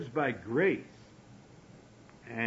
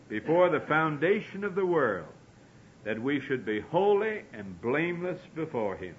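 scripture reading; 3 semitones higher than usual. Acted. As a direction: proclaim the long passage aloud. Reads scripture aloud with force.

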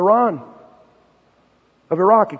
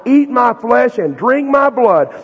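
loud slow challenge; 5 semitones higher, 6 dB louder, slower than usual. Acted. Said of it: "And he says".

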